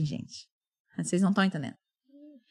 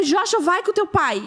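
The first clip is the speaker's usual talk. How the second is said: mild mock yell, higher and drawn out; retold hysterical yell; 6 semitones higher than usual. Mother sending older son with his father, mildly hysterical. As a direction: order the boy off, slowly, pitched up. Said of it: "gritando, assim, histericamente".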